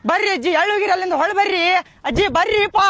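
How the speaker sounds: high pleading call to grandma; theatrical wailing call to the dead grandma; mock calling out. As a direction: call her back across the yard, hammed up.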